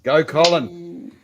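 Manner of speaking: drawn-out cheer; slow, rooting shout of encouragement. Real, not acted. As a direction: cheer them on, stretching it out. Cheering on a giveaway contestant.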